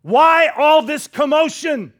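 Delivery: loud, slow "Why all this commotion?" over the noise; loud demand. Acted. Jesus confronts the wailing mourners with a loud, slow demand. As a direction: call out over the wailing crowd, slowly. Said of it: "That's his question".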